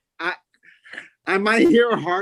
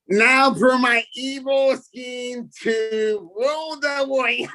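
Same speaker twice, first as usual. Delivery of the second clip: evil villain voice; 4 semitones higher, slower than usual. Acted. World's worst supervillain bit.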